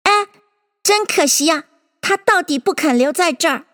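mild, high-voiced disappointment; sighing regret. A narrator's reading. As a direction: sigh over a pity. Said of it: "叹道".

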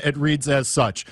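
usual speaking voice

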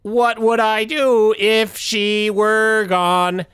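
slow, flat robot voice. Acted. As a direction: drag it out like a sad machine. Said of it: "Robot Tim".

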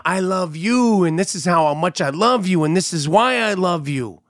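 mock gushing with stretched words; gushing wedding vows. Retelling the wedding's love speeches, mock gushing. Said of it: "the stories and the love".

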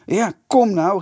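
high, loud taunting call. A narrator's reading. Kees dares the Vitessers to come out, calling loudly. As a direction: shout a dare at the door. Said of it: "riep Kees".

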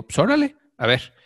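playful high órale; cheeky high-pitched go-ahead; mock eager okay. Jokey agreement to telemarketer.

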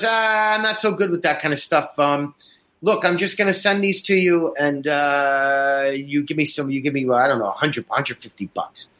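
put-on a light sketch of a vague old dealer; imitating the seller. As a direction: play the guy who can't send photos, casually. Quoting the seller's reply.

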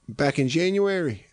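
imitating her father. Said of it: "He's like".

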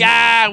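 short retold holler; imitated outburst. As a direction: mimic his cry of ah. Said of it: "'Cause he was like".

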